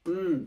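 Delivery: উম as a held nasal syllable; pronunciation demo. Shown as a demonstration. Teacher introducing the last letter to learners, demonstrating pronunciation. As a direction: model উম as one drawn-out hum. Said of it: "এরপর অক্ষরটা হচ্ছে".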